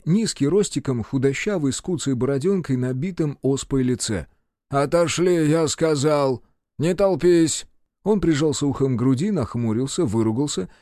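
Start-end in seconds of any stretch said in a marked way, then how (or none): 4.7-7.7 stern shout. Acted. Medic orders crowd away.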